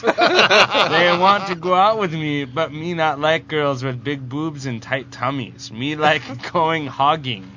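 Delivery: lightly played blockheaded comic-book creature; emphatic, lightly put-on caveman-style reading; Bizarro voice. Host reading contest entry to laughing co-hosts, lightly voiced Bizarro. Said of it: "do this in the voice of Bizarro".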